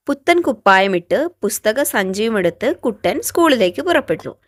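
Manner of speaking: put-on loud, lively storybook reading for children; teacher reading a tale to fourth graders, loud and animated; story reading. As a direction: read the story out brightly to young kids. Teacher reads story aloud.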